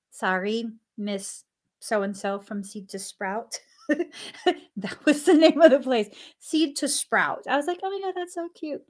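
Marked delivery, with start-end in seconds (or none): 3.9-6.1 said through a real laugh; laughing at the cute name as she speaks. Real, not acted. 7.8-8.8 high, quick, soft gush over something cute. Retold or imitated. Retelling her reaction to name.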